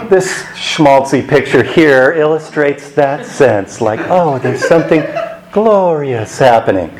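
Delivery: laughing. Real, not acted. Joking about a schmaltzy picture.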